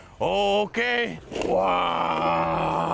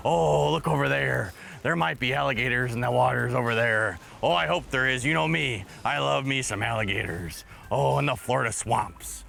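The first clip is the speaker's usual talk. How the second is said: lower, lightly voiced cheerful pirate growl; 4 semitones lower than usual. Pirate host greeting kids over toy trucks, cheerful pirate voice. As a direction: play a jolly pirate showing toys.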